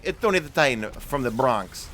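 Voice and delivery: exaggerated New York accent with some punch; turned-up New York accent. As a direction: play up the Bronx accent. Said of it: "really turn up the New York accent".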